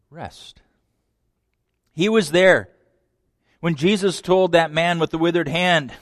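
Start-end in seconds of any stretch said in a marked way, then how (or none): 0.1-0.6 whispered rest. Acted. Preacher whispering Jesus' promise of rest. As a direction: drop to a breathy whisper on the last word.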